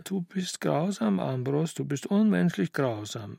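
mildly plaintive, theatrical complaint; sobbing. Acted. Aunt reproaching her nephew, mildly sobbing. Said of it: "und schluchzte".

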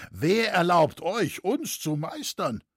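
high, indignant questioning; called-out challenge. A narrator's reading. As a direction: challenge his right to command. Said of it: "rief nun der Schmied".

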